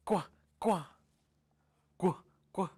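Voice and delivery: seal barks. Retold or imitated. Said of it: "and you are going to bark".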